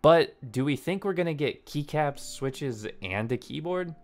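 hyped clickbait narrator voice; YouTuber voice. Shown as a demonstration. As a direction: sell it like a hype intro. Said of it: "There's some YouTuber voice for you".

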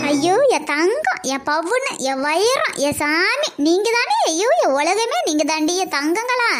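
high, gushing cries of endearment; shower the kids with love, voice climbing high; emotional pampering. Acted. Mother fondling her children emotionally. (கொஞ்சும் உணர்ச்சி குரல்)

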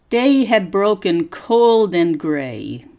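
slow, clear teacher's reading for repeating; slow read-aloud model. Shown as a demonstration. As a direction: read each phrase slowly so learners can copy the tune. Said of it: "listen and repeat".

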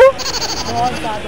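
drawn-out anger. Acted. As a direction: stretch it out like a sulky grumble. Angry complaint in quarrel. (खिंचा हुआ गुस्सा)

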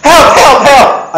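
high, loud, panicked cry for help. Retold or imitated. A duellist calls the town for help, high panicked cry. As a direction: yelp for help like a cowardly duellist. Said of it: "the other guy goes".

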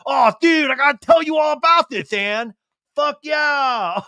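high, loud eager bro; excited bro voice. Retold or imitated. Sandoval launching into his story to Ann, high bro voice. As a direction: gush with bro enthusiasm. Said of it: "he just comes like".

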